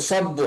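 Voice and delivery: সব্বু with the ব held and said twice; doubled consonant. Shown as a demonstration. Teacher shows students the doubled ব in সব্বু. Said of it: "দুইবার আওয়াজ করে মিলিয়ে পড়তে হবে".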